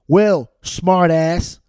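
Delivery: slow, loud mocking comeback; sarcastic retort. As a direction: put the heckler in his place. Retort to imagined heckler.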